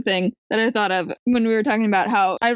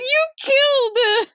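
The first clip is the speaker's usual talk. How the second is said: high, slow mock wail; mock crying; 12 semitones higher, slower than usual. Boy accuses the police, mock crying. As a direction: drag it out in an exaggerated tearful cry. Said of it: "And he's crying".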